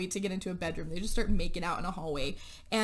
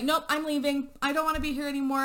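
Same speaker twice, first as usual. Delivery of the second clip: fed-up exit; 5 semitones higher, faster than usual. Retold or imitated. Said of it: "she's like".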